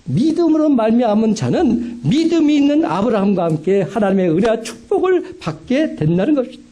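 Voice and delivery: 높은 목소리로 구절을 힘주어 되풀이; 성도들에게 다시금 새기듯 강조. Acted. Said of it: "분명히 다시금 기억하십시오". (높이 띄워 강조하는 설교 반복)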